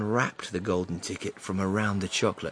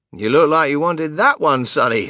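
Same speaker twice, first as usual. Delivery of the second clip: pleasant shopkeeper; 3 semitones higher, 8 dB louder than usual. Acted. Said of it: "the shopkeeper said pleasantly".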